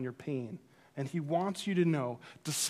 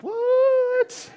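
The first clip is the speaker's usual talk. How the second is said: stunned what; 10 dB louder than usual. Retold or imitated. Stunned reaction to pastor stopping.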